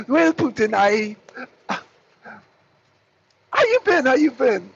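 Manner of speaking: a hint of awkward Macron; mock Macron. Macron making small talk, lightly mocked. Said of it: "I'm just reenacting the phone call".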